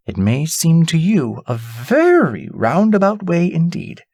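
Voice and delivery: lightly voiced, kindly old lady giving counsel; a grandmother reassuring a child; wise old lady. Old lady instructs Irene.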